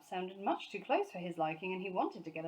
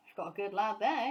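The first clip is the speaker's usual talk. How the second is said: approving murmur; 4 dB louder than usual. Acted. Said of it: "he said approvingly".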